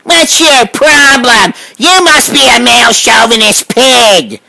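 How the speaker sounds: lightly voiced whiny complainer, slow and drawn out; mocking a nagging critic. Mimicking the woman who wrote in, slow mock complaint. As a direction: sneer the critic's nagging back at her, slowly. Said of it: "some bitch comes in".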